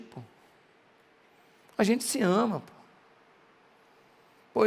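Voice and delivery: soft, low, pleading lover's apology; quiet coaxing to a partner after a fight; tender apology. Retold or imitated. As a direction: gently win her back, lightly voiced. Son apologizes to pregnant girlfriend.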